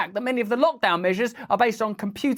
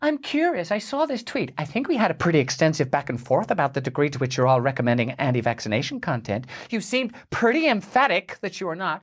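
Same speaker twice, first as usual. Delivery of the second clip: passive-aggressive reading; 3 semitones lower than usual. Retold or imitated. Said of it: "passive-aggressive psycho X text".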